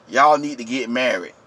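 low, hushed meddler's voice; mock church matchmaker. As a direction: say it low and soft, mimicking a church busybody.

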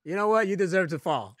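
laughing mock jeer; mocking heckle. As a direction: jeer at the climbers through laughter. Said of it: "just like".

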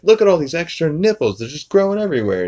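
Peter voice. Retold or imitated. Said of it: "He's like".

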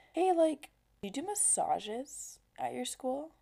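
high, leering creepy-man imitation; creepy neighbor voice. Retired neighbor hinting at massages to a schoolgirl, leering high voice. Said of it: "And he would say it like that".

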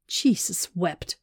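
slow, slightly out of breath; lightly acted panting. A narrator's reading. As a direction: say it as if catching your breath. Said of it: "she panted".

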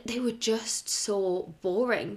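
slow, dragging, bored delivery; bored drone. Retold or imitated. Husband explaining why the videos bored him, in a slow bored drone. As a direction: let the words sag with boredom.

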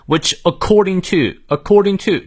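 "according" with the second syllable punched, slowly; second-syllable stress. Shown as a demonstration. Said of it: "重音呢也在第二个音节". (放慢，“according”重音落在第二音节)

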